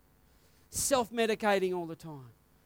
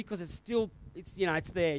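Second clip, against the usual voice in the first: teary; 4 semitones lower, 3 dB quieter than usual. Real, not acted. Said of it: "Excuse me if I get a little teary".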